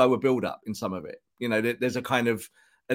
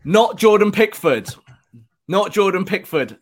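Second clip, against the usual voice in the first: much higher, louder emphatic shout; 8 semitones higher, 9 dB louder than usual. Real, not acted. Pundit rejecting co-host's keeper suggestion, shouting. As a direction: shout the refusal right at the mic. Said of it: "I'm shouting".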